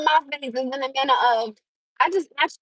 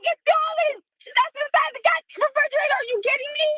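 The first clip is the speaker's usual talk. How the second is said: exasperated curse. Retold or imitated. Mom finds her son never touched the grapes, exasperated high curse. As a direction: blurt it out, fed up and shocked. Finding uneaten grapes in fridge.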